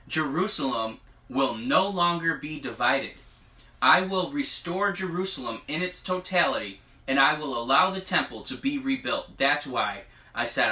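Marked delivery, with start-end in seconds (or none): 0.1-9.4 measured declaration, lifting on key phrases; prophetic proclamation. Acted. Reading God's word to the congregation, prophetic proclamation. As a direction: read it out as a solemn promise.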